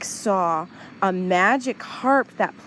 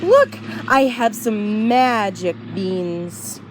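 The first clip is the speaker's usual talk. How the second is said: excited Jack. Acted. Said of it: "He said".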